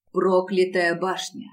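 ordinary delivery

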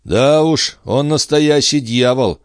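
resolute. Acted. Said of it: "решительно заявил Бьяк".

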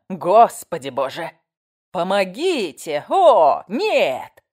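loud, slow panicked cries; horrified screaming. A narrator's reading. Neighbour screaming in horror at the torn hand. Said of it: "нечеловеческий крик".

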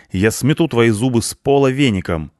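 high, loud angry bark; barked threat. A narrator's reading. Cleaner defending her friend from the punk, barking. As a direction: roar a warning at him. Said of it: "рявкнула на него Швабра".

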